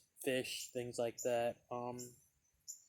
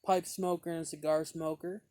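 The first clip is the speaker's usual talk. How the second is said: friendly guy; 4 semitones higher, 4 dB louder than usual. Retold or imitated. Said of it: "he goes".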